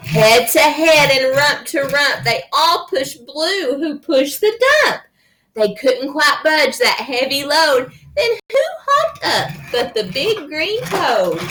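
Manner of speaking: lively picture-book narration; reading to children. A narrator's reading. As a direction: read it to a small child with playful swings.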